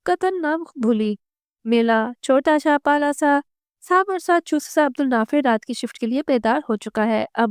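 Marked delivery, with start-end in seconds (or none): 1.7-4.9 slow, higher-pitched lisping coo with r softened to l in "मेला"; baby talk to an infant. A narrator's reading. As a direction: say "मेला छोटा सा पाला सा" as cutesy baby talk. Baby talk in narration, slower, higher. (बच्चे से तुतलाकर लाड़ भरी बोली)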